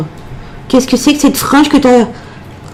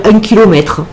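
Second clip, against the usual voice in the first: put-on playful southern French accent; accent du Sud. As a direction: put on a Midi accent for fun. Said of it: "J'adore faire l'accent, euh, l'accent du Sud". (accent chantant du Sud de la France)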